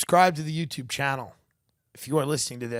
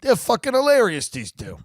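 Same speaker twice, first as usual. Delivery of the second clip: much higher, gushing fan voice; a hammed-up gushing fan raving about a comedy act; theatergoer raving; 11 semitones higher, 6 dB louder than usual. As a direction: squeal like a delighted audience member. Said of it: "vaudevillian comedy duo".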